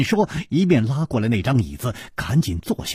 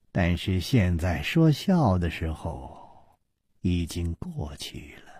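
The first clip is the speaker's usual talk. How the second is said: low threat; 5 semitones lower, 7 dB quieter than usual. A narrator's reading. Woman turns threatening.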